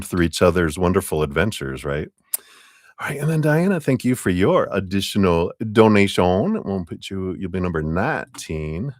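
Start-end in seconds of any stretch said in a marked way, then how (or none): 3.0-8.9 Southern lilt with stretched, rising word endings; Southern accent. Real, not acted. Host thanking a donor on stream, suddenly Southern. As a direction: slip into a Southern twang. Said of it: "I suddenly went Southern".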